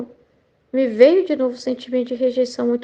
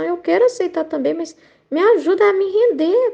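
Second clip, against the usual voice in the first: higher-pitched, mild pleading; retold plea; 5 semitones higher than usual. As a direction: plead with God, retelling it. Súplica encenada a Deus. (súplica recontada, mais aguda)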